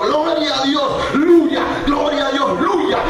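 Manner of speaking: very high, loud, slow shouted praise; ecstatic praise shout. Retold or imitated. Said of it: "ella está diciendo". (grito de alabanza extasiado, muy agudo y fuerte)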